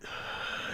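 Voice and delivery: short breathy sigh; soft sigh. Acted. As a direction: sigh under your breath. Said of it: "He kind of sighs".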